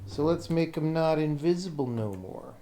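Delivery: ordinary talk, nothing marked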